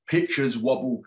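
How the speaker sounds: gentle storybook reading voice; story narration. A narrator's reading. Author reading his book to young listeners, gentle storybook voice. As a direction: read the bear's story to children.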